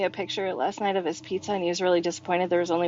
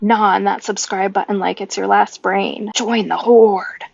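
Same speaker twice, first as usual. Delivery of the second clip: outro announcer read; 4 dB louder than usual. Acted. Podcast outro sign-off.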